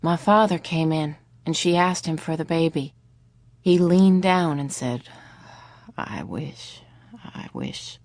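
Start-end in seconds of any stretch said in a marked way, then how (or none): 6.0-8.0 low, hushed, grieving whisper; sad whisper. A narrator's reading. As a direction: barely voice it in grief. Grieving father at bedside.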